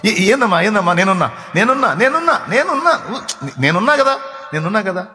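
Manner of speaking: rising comforting parent's reassurance. Retold or imitated. Preacher voices a parent comforting a scared child, reassuring. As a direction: soothe the child, I'm here. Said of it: "అన్న మాట".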